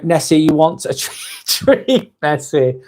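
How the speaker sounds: sing-song coax of the monster; coaxing call to a pet. Retold or imitated. Scene: Yorick calling Nessie from the river, coaxing with treats. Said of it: "I wanted to shout".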